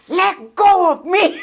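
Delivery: mock plea on waking from a nightmare; retold protest. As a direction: stretch it out slowly, half laughing.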